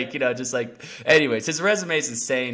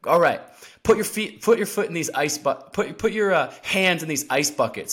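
barked commands, higher and louder; retold trainer orders; 5 semitones higher, 3 dB louder than usual. Trainer ordering him into ice buckets, barked commands. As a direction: drill him like a coach.

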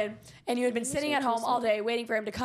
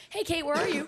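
sister's voice; 6 semitones higher than usual. Retold or imitated. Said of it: "your younger sister who says".

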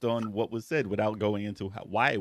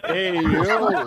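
put-on Brooklyn accent; 6 semitones higher, 6 dB louder than usual. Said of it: "Mario really had a Brooklyn accent".

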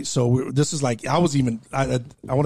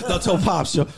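laughing plea; 4 semitones higher than usual. Retold or imitated. Pleading while laughing.

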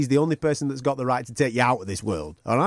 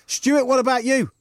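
high, bright-eyed cheery question; breezy call-out; 10 semitones higher, 3 dB louder than usual. Retold or imitated. Host unwittingly asking a bereaved colleague, breezy. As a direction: sing out the question, pitched well up.

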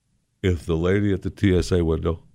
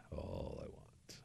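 whispered, much softer aside; 29 dB quieter, slower than usual. Real, not acted. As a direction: breathe the last words to yourself. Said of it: "whispered repeat".

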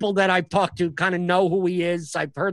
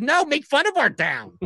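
higher, drawn-out mock plea; high-pitched, stretched-out mock insistence; eager townsfolk; 9 semitones higher than usual. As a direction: imitate locals egging a comic on. Acting out eager hometown audience.

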